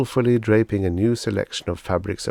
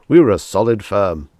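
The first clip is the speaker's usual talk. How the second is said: louder, beaming salesman flattery; gushing salesman; 9 dB louder than usual. Acted. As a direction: lay the praise on thick. Salesman Pathis boasts.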